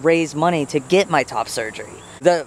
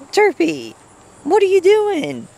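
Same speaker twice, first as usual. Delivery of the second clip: pet talk; 3 dB louder than usual. Real, not acted. Owner squealing at Derpy running away. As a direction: squeal the name up high.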